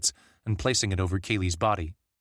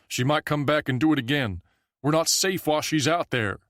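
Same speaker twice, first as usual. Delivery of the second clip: higher, worried voice of another man; fearful villager; 6 semitones higher, 3 dB louder than usual. A narrator's reading. Another villager telling the camp they are not safe, fearful. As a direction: warn them she may come back.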